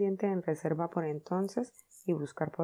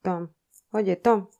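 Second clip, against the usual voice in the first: shouting; 9 dB louder, slower than usual. Acted. Sid shouting at his moaning brother Tom, loudly. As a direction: yell across the room. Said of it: "le gritó Sid".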